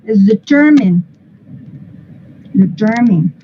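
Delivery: "determine" as de-TER-min, not rhyming with mine; teacher's careful "determine", weak last syllable; stress second syllable. Shown as a demonstration. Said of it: "automáticamente esta ya no va a sonar mine".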